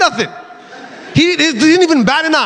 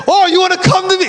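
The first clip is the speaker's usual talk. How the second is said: pastor; 7 semitones higher, faster than usual. Retold or imitated. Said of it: "he starts to tell him".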